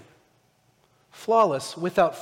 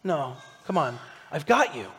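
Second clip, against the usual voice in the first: softer, lower, gently correcting; calm him down like a patient father; God comforting Abraham softly; reassuring God; 4 semitones lower, 5 dB quieter than usual. Acted. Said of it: "God shows up ... is like".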